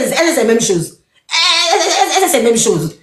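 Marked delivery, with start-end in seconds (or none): 1.3-3.0 stammering through a laugh, higher; laughing it out, pitch up. Real, not acted. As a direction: giggle through the repeated elle. Laughing at the rival's claim.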